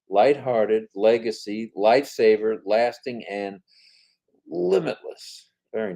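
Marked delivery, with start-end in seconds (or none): none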